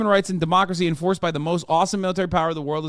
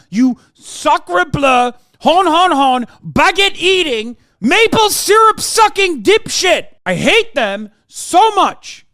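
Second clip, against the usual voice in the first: hammed-up French accent, loud, high and slow; mock French accent; 10 semitones higher, 7 dB louder, slower than usual. Mocking Quebecois with a loud slow cartoon French accent.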